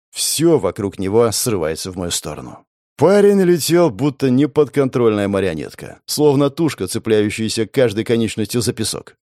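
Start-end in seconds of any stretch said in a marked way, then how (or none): none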